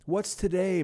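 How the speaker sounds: high, loud eager call. Acted. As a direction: call down excitedly to a boy in the street. Scrooge calls down to the boy.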